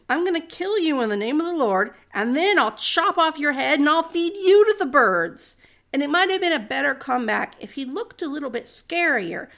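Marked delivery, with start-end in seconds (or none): 0.1-5.6 raised-voice threat, retold with gusto; mock shout. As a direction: imitate a young fighter shouting at his foe, building louder. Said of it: "And he shouts at him".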